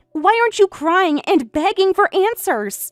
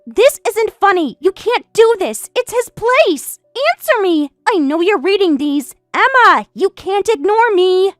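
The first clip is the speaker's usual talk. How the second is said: angry demands; 3 semitones higher than usual. Acted. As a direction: demand answers, outraged. Mistress furious over penthouse.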